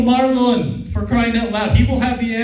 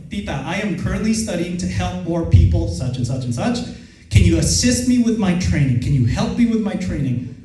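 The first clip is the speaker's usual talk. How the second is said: composed, assured adult request; confident tone; 2 semitones lower than usual. Shown as a demonstration. Trainee asks an aunt for help with training, confident. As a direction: ask it evenly, with settled confidence. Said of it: "The only difference in what I did there was my tone of voice".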